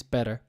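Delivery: "better" with a light, tapped d-like t and final r; American "better", r pronounced at the end; American pronunciation. Shown as a demonstration. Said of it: "you'll hear in the United States".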